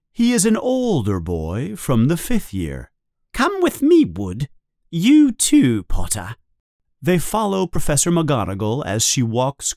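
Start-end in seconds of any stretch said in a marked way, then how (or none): 3.3-6.4 high, clipped summons; brisk teacher command. Acted. Teacher fetching two pupils, brisk and raised. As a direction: call them along briskly.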